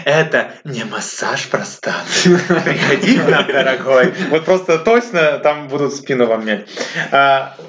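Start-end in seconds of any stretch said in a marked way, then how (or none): 0.1-4.1 languid sultry ad voice; sultry narrator. Retold or imitated. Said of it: "скажет томным голосом какая-то девушка".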